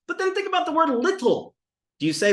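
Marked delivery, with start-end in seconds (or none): 0.9-1.5 "little" with a crisp T in the middle; hard T. Shown as a demonstration. Teacher testing the spelling against speech, over-precise T. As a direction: sound the written T in "little". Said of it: "The ta is pronounced the duh".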